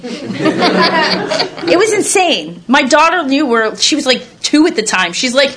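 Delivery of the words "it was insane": laughing. Real, not acted. Laughing at the memory.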